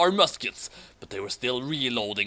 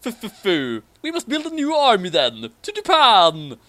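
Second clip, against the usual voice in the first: higher, louder stammering shout; zombie head shouting; 6 semitones higher, 6 dB louder than usual. Acted. Severed zombie head ordering the flight to Japan, stammering shout. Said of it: "Billy Bishop's head shouted".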